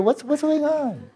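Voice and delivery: high, slow, laughing question; laughing disbelief. Real, not acted. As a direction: squeak it out through a laugh. Laughing at the absurd image.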